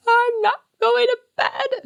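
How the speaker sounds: imitating toddler meltdown.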